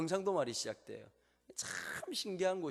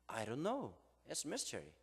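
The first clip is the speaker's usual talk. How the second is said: quoting the professor; 2 semitones lower, 5 dB quieter, much slower than usual. Retold or imitated. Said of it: "답변이 의외였습니다".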